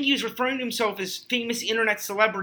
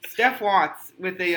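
laughing; 4 dB louder, slower than usual. Real, not acted. Laughing reading the letter's sign-off.

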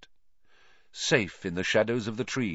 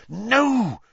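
whispered fear; 13 semitones higher, 5 dB louder than usual. A narrator's reading. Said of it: "said Hermione in a terrified whisper".

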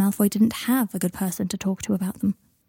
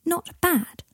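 indignant, much higher echo question; protesting; 9 semitones higher than usual. A narrator's reading. Boy objecting to Teddy's verdict, high-pitched protest. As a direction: throw "Not bad?" back, pitched high and falling. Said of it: "protested Scorpius".

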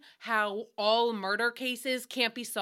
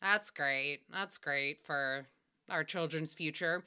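sarcastic; 7 semitones lower, 5 dB quieter, slower than usual. Real, not acted. Sarcastic about predators.

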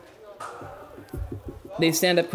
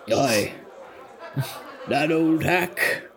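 gruff alum voice. Acted. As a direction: sneer at the old hack. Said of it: "spoke up".

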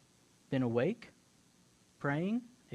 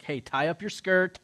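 loud, insistent hustle-along; raised voice, urging him to get moving; hurrying angel; 3 semitones higher, 7 dB louder than usual. Retold or imitated. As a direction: chivvy a sleepy friend along. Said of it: "So he's like".

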